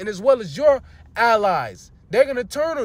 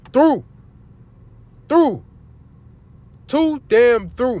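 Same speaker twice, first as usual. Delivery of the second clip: higher, louder exasperated shout; preacher fed up with Esau, yelling; 4 semitones higher, 4 dB louder, slower than usual. Real, not acted. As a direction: bark out that you're done with him. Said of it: "all the yelling and screaming".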